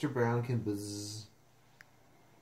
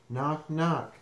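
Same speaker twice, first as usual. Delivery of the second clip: two knocking words; door knock; 3 semitones higher, 3 dB louder than usual. Acted. Reader imitates a hand on the door, knocking. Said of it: "sound like a hand on the door".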